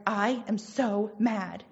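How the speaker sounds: slow, emphatic mock fuming; acting out being so mad, mildly; retold anger. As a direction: draw out each word in retold frustration. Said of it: "I got so mad today".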